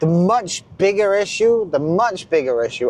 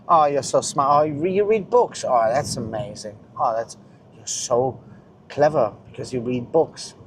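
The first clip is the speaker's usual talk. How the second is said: sarcastic praise; 3 semitones lower than usual. Retold or imitated. Sarcastically praising someone who boasts of reading books, mock gushing. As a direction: sarcastically fawn over a reader. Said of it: "when people boast".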